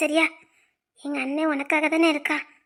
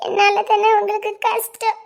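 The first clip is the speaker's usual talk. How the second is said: weepy, slightly raised voice; tearful self-blame; 3 semitones higher than usual. Acted. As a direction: blame yourself through tears. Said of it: "நீ ஏன் மட்டும் அழுதுகிட்டு இருக்க?".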